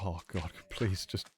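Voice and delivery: mock pleading parent. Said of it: "it's just like".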